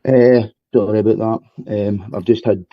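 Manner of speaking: breathless, catching breath. Real, not acted. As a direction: talk while still panting. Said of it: "I'm out of breath".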